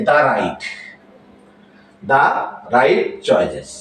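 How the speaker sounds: slow model, "the" pronounced da before "right". Shown as a demonstration. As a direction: say "the right" as da right, spaced out. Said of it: "অন্য সকল ক্ষেত্রে তার উচ্চারণ হবে".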